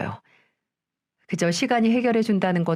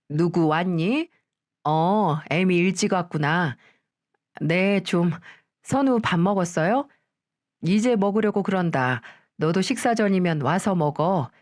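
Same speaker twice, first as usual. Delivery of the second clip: a hint of a calm old mother-in-law; lightly voiced grandmother. Grandmother calmly greets the daughter-in-law coming home.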